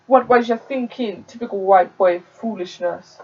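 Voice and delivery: put-on a light Jamaican accent on a scolding mum; hesitant first go at a Jamaican mum's telling-off. Narrator voices Delroy's mum scolding him, light Jamaican accent. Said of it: "I don't wanna do that accent".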